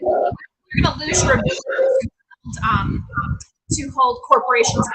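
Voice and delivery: breaking up on a bad line; crackly cordless phone. Real, not acted. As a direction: signal fading in and out. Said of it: "you're fading in and out again".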